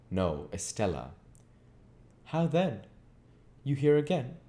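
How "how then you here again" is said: high, sharp-voiced surprised spinster; a curt, higher voice for the sour relative; Sarah Pocket. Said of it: "said Miss Pocket".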